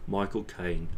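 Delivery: Cockney-voiced British actor impression; Michael Caine. Shown as a demonstration. Streamer shows his actor imitation, broad Cockney accent. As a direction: say the name with broad Cockney vowels. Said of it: "biting off specific actors".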